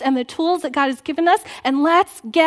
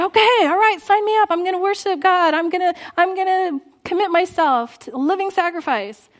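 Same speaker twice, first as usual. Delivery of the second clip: excited sign-up; 5 semitones higher than usual. Retold or imitated. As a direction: sign up with hammed-up zeal. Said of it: "we can get all excited and say".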